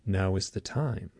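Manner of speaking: solemn alien beings. Retold or imitated. Beings answering the abductee, solemn. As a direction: quietly intone it as an otherworldly verdict. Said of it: "And they said".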